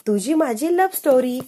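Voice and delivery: eager game answer; excited answer. Acted. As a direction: blurt the answer proudly. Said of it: "अक्षय म्हणतो".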